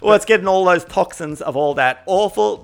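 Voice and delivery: lightly camp preachy voice; a hint of a camp, preachy vegan, slow on murder meat; mild mock vegan lecture; put-on accent. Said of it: "why you have to be with that gay accent".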